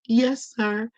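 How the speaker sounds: high little "yes, sir" voice; meek obedient child. Retold or imitated. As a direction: answer a scary father in a small high pitch. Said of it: "It was like".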